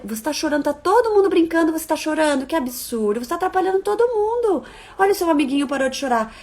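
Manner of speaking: mock scolding adult. Adult scolding crying child.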